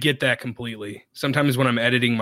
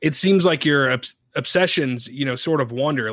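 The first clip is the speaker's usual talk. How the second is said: slightly raised, firmer repeat; a touch more emphatic, clarifying. Real, not acted. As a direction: say it over for someone who missed it. Repeats after listener says I'm sorry.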